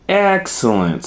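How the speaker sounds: high, loud cheerful exclaim; Mama Bear delighted. A narrator's reading. Mama Bear agreeing to a bike ride, high and cheerful. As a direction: cheer the idea. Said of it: "said Mama Bear".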